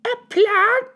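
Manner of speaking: mother appalled at her plant-eating son; horrified yell. A narrator's reading. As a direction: shriek it in horror. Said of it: "yelled Mum in horror".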